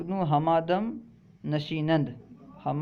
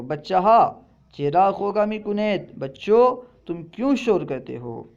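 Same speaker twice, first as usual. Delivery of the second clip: mock scold; 3 semitones higher, 4 dB louder than usual. Shown as a demonstration. Teacher acts scolding noisy kids.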